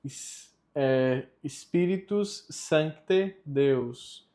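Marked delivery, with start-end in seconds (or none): 1.5-4.3 slow, careful "Spiritus Sancte Deus"; Latin pronunciation demo. Shown as a demonstration. Teacher showing learners how the litany is pronounced, careful Latin model. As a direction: sound out the C of "Sancte" clearly. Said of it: "a pronúncia fica".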